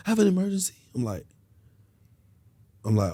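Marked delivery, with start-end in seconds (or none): 0.1-0.7 high, pleading mock girlfriend; woman's high voice asking a favour; imitating woman friend. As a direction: put on her high sweet-talking voice. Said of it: "So she like".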